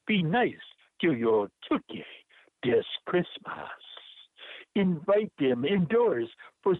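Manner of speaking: put-on poem read in a light Jamaican accent. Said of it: "use my best Jamaican accent".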